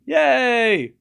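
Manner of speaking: high, drawn-out cheer; happy cheer. Real, not acted. Streamer cheers the insurance bet paying off, happy cheer. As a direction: stretch it into a high celebration. Cheering the win once more.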